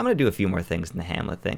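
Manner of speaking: talking really fast, rattled off.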